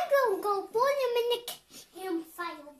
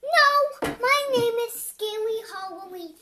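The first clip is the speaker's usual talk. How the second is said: spluttering outrage; 2 semitones higher, 6 dB louder than usual. Real, not acted. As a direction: blurt it out, indignant. Insisting on her name.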